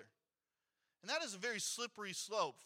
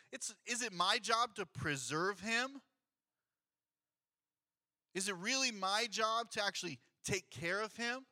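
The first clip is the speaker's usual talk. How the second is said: a touch of mock sarcasm, a little louder; lightly sarcastic Cain; sarcastic, rhetorical; 4 dB louder than usual. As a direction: scoff at the idea of caring for him. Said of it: "in a sarcastic, rhetorical way".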